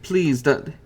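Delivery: mother pleading with the fiend, lightly voiced; begging. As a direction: beg the captors to spare her son. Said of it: "she begs".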